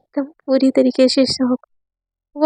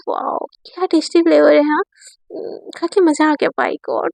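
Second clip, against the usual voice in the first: teasing; 2 semitones higher than usual. Acted. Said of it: "जीभ चिढ़ा चिढ़ा के".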